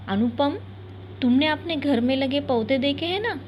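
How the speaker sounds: gentle, tender mother; lovingly. Acted. Mother gently asking her sad son, tender. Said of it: "फिर प्यार से बोली".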